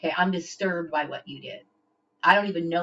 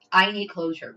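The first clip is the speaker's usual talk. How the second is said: louder repeat of "I need closure." with the weight on "I"; insistent and louder; louder insistence; 5 dB louder than usual. Real, not acted. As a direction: push "I need closure." out hard. Angry rant, repeats closure line.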